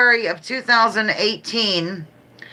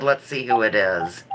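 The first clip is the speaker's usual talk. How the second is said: low, soft mock husband; a hint of her husband's dull tone, low and soft; teasing replay of husband, lower and softer; mimicking husband; 11 semitones lower, 3 dB quieter than usual. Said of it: "I can't believe you said".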